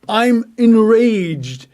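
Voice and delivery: slow, drawn-out enraged outburst; mock fury, dragged out; acted rage. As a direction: let the rage boil out slowly. Acting out his own anger.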